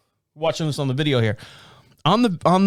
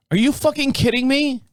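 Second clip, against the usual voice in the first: much higher, incredulous "Are you fucking kidding me?"; the second "Are you fucking kidding me?" pitched way up in mock outrage; outraged disbelief; 11 semitones higher than usual. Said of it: "I open 'em up and I go".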